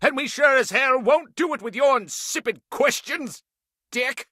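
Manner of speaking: exasperated, snapping back; irritated outburst. Acted. President snaps at interrupter.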